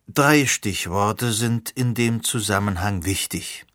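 slow, cheerful lecturing; teacher explaining to Sirona, lecturing slowly. Acted. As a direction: hold forth like a pleased teacher. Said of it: "dozierte Simon also gut gelaunt".

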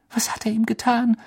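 a frightened breathy whisper. A narrator's reading. Hermine whispering over Ron, frightened. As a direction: whisper it over the injured friend. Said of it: "flüsterte Hermine".

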